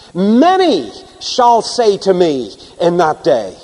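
slow reading, Many weighted and falling; stress on Many. Shown as a demonstration. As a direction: read slowly, landing on Many. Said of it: "the emphasis on the words".

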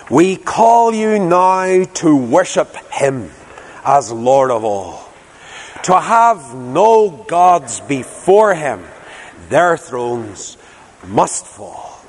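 slow, solemn reading of a hymn verse; hymn read aloud. Acted. Preacher reading the last hymn verse to the congregation, slow and solemn. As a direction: read the verse like a prayer, slowly.

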